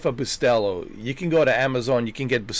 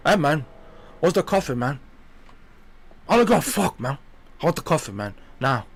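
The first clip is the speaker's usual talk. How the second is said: higher-pitched movie gangster impression; Tony Montana; 3 semitones higher than usual. Customer walking into a Cuban coffee shop, gangster impression. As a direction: demand it like a hammed-up gangster. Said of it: "like, uh, Tony Montana".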